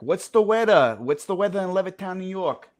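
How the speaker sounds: put-on high, loud kid asking the smart speaker; kid's eager voice; imitating his son. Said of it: "But he'll be like".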